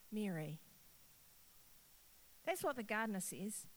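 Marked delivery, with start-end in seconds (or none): 0.1-0.6 tender naming. Acted.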